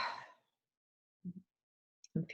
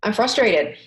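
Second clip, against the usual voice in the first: louder, higher venting; emphatic frustration; 5 semitones higher, 8 dB louder, slower than usual. Shown as a demonstration. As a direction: let the frustration out. Venting for the viewers to repeat.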